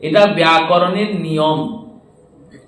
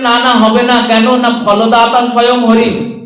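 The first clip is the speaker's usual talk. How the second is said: emphatic objection; 3 semitones higher, 5 dB louder than usual. Acted. Ganesh firmly objects.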